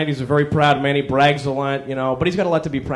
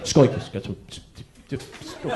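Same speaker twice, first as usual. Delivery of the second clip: gesturing busybody; 3 semitones lower, 9 dB quieter than usual. Retold or imitated. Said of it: "kind of person's like".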